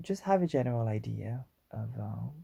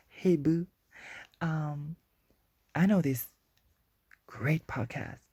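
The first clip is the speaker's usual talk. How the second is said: hyped fan shout-out; 4 semitones higher than usual. Pretend. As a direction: hype it up like an eager fan posting. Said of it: "be like".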